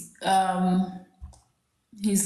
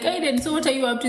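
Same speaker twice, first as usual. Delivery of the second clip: put-on higher, quick question to a child; lightly re-enacted, raised and hurried asking; retold parental check-in; 6 semitones higher, much faster than usual. Parent asking bored son what he's doing, retold check-in.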